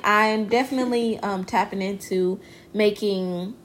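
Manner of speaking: slightly tipsy, slurring a little. Real, not acted. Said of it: "I'm a little tipsy".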